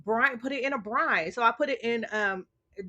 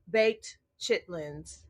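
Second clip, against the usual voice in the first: deadpan tease; slower than usual. Retold or imitated. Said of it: "I'm like".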